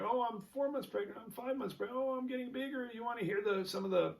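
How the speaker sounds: a hint of an excited surrogate's running report; surrogate mother. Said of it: "like you hear from the surrogate".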